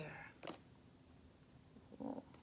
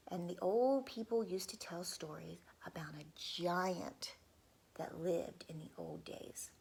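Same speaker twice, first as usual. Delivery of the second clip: whispered narration. A narrator's reading. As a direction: whisper to draw children in.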